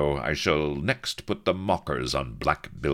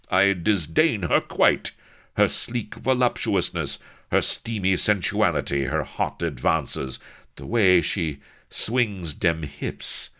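louder, slowing as he lingers on her charms; dreamy captain; 5 semitones higher, 5 dB louder than usual. A narrator's reading. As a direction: let the disdain melt into relish. Avery drifting into dreamy admiration.

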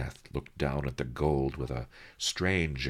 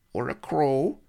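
Master Lee's quote, higher and louder; old scholar's line, higher and louder; voiced high and loud; 10 semitones higher, 7 dB louder than usual. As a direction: pitch him up and push the volume. Master Lee listing animals.

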